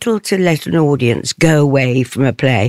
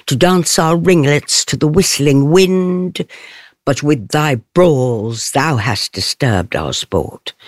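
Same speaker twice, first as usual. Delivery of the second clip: measured verse reading with line endings marked, slowing on the last line; Shakespeare verse as Titania. Shown as a demonstration. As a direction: speak Titania's lines to Oberon with lightly marked verse endings. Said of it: "I'll do a little bit of Titania".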